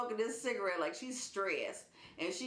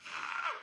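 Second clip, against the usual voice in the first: short mock girly scream; imitated girlish scream. Man fleeing the cat, mock girlish scream. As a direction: scream like a girl, half-hearted. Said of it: "he screams like a girl".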